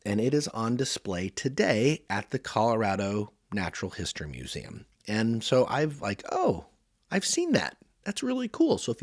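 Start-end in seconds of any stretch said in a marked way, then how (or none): 6.3-8.8 much higher, delighted retelling of his own reaction; lightly acted surprise at recognising it; excited. Recalls seeing the famous crystal.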